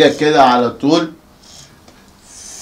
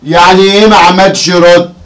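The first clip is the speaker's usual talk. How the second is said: louder, accusing question; angry demand; 5 dB louder than usual. Acted. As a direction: push him hard for the money. Father berates son over earnings.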